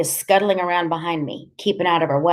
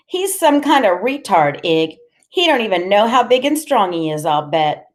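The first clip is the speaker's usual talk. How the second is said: high, needling character voice; lightly voiced mocking woman; taunting Loretta; 4 semitones higher, 4 dB louder than usual. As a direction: size someone up out loud, pitch raised.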